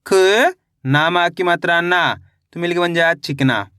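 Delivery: slow syllable-by-syllable blending; teacher spelling a word aloud for children; sounding out syllables. Shown as a demonstration. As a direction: stretch each syllable then join them. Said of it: "teacher sounds out syllables".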